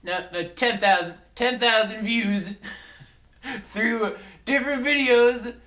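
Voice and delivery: high, gloating ghost voice; Salty Blues Spirit. Acted. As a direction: sneer like a smug holiday spirit. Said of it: "I'm the Salty Blues Spirit of Christmas Past".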